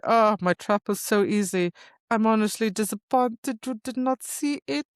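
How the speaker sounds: lightly voiced smug king; a touch of gloating disappointment; king's voice. Host imitating the king gloating, lightly voiced. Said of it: "I don't know why he talks like that".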